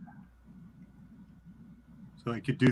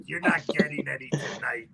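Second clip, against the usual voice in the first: whisper; 5 dB quieter than usual. Retold or imitated. Whispered insult in character.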